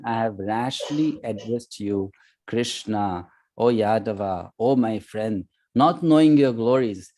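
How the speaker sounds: measured scripture reading, phrase by phrase; reading a translation. Acted. Teacher reads Arjuna's plea to the class, measured reading. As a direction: read out the verse translation deliberately. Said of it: "let me first read the translation".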